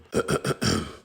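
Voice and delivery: theatrical throat clearing; mock-formal ahem. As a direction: clear your throat before reciting. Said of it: "I wrote you a poem".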